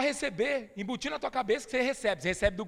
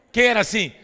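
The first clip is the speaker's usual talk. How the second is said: laughing; 12 dB louder than usual. Real, not acted. Laughing question to crowd.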